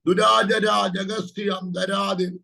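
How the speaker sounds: slow, drawn-out tongues syllables; speaking in tongues. Real, not acted. Prophet breaking into tongues mid-prophecy, slow and drawn out.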